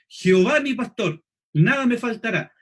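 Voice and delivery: firm declaration of God's greatness; preacher's emphatic verse on God's power; forceful, proclaiming. Shown as a demonstration. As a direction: proclaim "Jehová" and "nada me faltará" with weight. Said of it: "Le estoy dando fuerza a mi idea".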